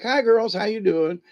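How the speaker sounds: lightly voiced high nerd greeting; nerd character. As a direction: pitch it up, a hint of the goofy nerd. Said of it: "I was in character".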